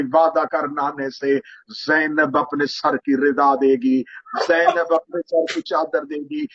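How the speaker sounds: slow, solemn lines of a resolute sister; Zainab's voice. Acted. Zainab answering Husain at the grave, slow and resolute. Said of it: "Ali की बेटी की आवाज आई".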